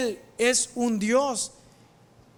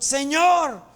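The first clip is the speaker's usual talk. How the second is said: raised, ringing prayer; cried-out prayer; 3 semitones higher than usual. Acted. Jesus prays aloud before the tomb, cried-out prayer. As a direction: call out to God in a lifted voice. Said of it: "Jesús grita".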